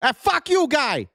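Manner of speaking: high, laughing fake Boston curse; mock Boston accent. Streamer mocking a Boston accent to chat, laughing. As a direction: ham up a Boston guy swearing.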